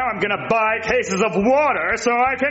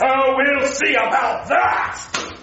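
shouting threat; 2 semitones higher, slower than usual. Acted. Villain threatens bulletproof glass.

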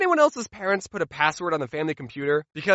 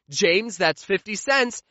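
slow mom verdict; slower than usual. Retold or imitated. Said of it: "my mom would hear me and say".

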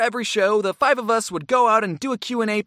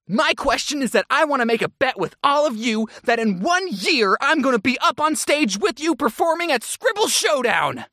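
eager fan; 4 semitones higher than usual. Retold or imitated. Retold fan's bold bet.

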